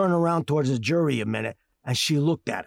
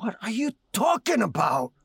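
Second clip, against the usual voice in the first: outraged shout; 4 semitones higher than usual. Acted. Outraged at the accusation.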